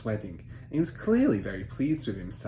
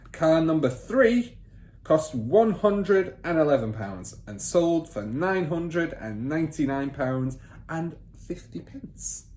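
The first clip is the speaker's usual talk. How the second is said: higher, louder command to write; bossy father; 6 semitones higher, 5 dB louder, slower than usual. Acted. Father ordering son to take down figures, bossy. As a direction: snap the order at the boy.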